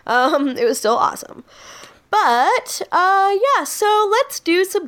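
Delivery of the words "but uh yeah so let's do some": talking through a yawn. Real, not acted. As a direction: speak while yawning. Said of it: "while I yawn".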